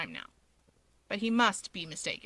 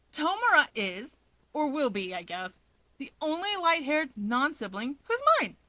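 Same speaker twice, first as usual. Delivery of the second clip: proud declaration; 4 semitones higher than usual. Acted. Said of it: "Natsuo declares".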